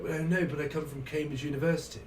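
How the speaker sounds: lightly hammed-up posh English; posh Cambridge accent. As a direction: put on a touch of Cambridge snob. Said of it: "it's 'cause it's Cambridge University".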